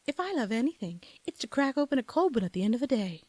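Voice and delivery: mock British ad read; affected hybrid British pitch; seventies British-Southern accent. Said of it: "Southern British accent".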